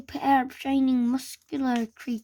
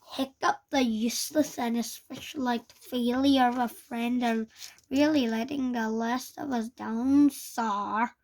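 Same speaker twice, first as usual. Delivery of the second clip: sneer. Acted. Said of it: "sneered Snutlip".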